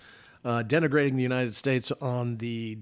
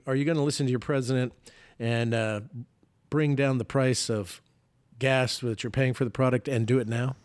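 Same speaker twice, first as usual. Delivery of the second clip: ordinary talk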